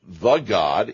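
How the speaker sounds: "the" hit as "thuh" before God; stress on THE. Shown as a demonstration. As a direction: punch the article "the". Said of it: "the article can sometimes be supplied".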